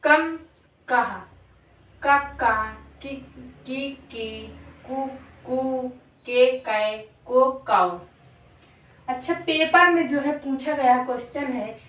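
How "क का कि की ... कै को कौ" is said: क का कि की कु के कै को कौ recited one by one with pauses; reciting syllables. Shown as a demonstration. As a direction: sound out each syllable like a chart drill. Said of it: "जैसे".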